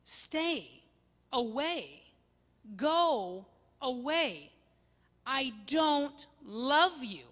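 loud, slow, tearful rejection; pushing away. Acted. Gomer pushing the loving husband away, crying. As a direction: drive them off with a breaking cry.

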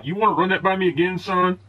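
high-pitched, pushy challenge to a fight; menacing veteran quote. Retold or imitated. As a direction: throw it down like an old vet itching for a fight. Veteran threatens narrator at diner.

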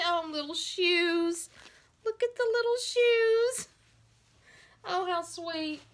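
very high, drawn-out cooing; delighted squeal. Real, not acted. Collector finds tiny doll shoes in the parcel, squealing. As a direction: squeal slowly over something adorable.

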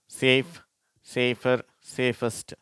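slow, separated dictation of each word; measured teacher's model reading; word-list reading. Shown as a demonstration. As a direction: read each word out slowly for learners. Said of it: "அப்படின்னு சொல்லிட்டு".

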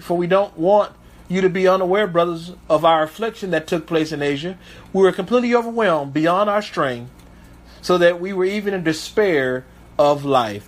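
low, measured Bible reading; scripture reading. Acted. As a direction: read the verse with weight. Reads scripture aloud.

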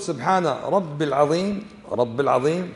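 slow, رب العظيم linked as rabb-il-azim; no ya on رب, joined to العظيم; wrong pronunciation. Shown as a demonstration. Teacher explains the error to students, mispronounced demonstration. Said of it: "إذا قلت".

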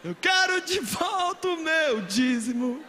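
mock whining tears. Preacher mocking herself giving tithe while crying, slow and whiny. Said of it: "Eu já dei tanto dízimo chorando".

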